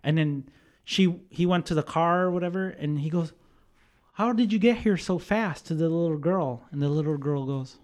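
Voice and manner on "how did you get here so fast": high-pitched baffled question; startled disbelief. Retold or imitated. Dad to little girl at the car, startled. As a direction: imitate a dad taken aback.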